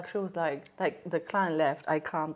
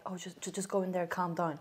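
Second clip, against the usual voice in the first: tag; 9 dB quieter than usual. Retold or imitated. Colleague calming her, retold.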